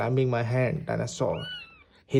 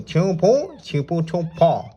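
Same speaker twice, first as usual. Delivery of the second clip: a slightly higher mock animal cry; pretend animal language; 5 semitones higher, 5 dB louder than usual. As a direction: chirp it back like you speak its language. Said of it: "I know your language".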